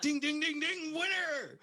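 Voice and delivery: high, ringing game-show call; hammed-up winner announcement; mock winner bell. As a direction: sing out high like a prize bell.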